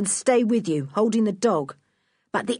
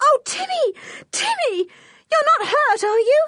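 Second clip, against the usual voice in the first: shrill, very high, screamed cry; 3 dB louder than usual. After a shot rings out by the cave, narrator reads her cry, screaming. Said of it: "George screamed".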